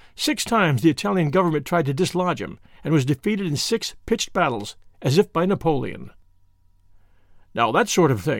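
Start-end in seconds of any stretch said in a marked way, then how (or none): 7.6-8.4 weighty, much lower pitch. A banker remarks to the group after the courier's story, weightily. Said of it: "observed the banker weightily".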